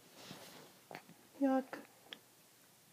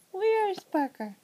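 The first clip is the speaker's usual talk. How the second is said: slow sing-song; 4 semitones higher, 4 dB louder, slower than usual. Real, not acted. Peekaboo with baby.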